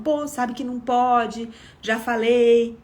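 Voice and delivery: imitating a brief angry telling-off; mock scolding. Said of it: "A minha fúria, a minha raiva". (bronca irritada imitada, de leve)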